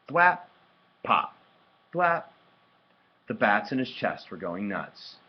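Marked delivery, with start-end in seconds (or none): 0.1-0.4 high, loud smack of a word; ball sound effect. A narrator's reading. Reader imitating the ball landing, high and sharp. Imitating the ball's noise in story. 1.9-2.2 high, loud smack of a word; ball sound effect. A narrator's reading. Reader imitating the ball landing, high and sharp. Imitating the ball's noise in story.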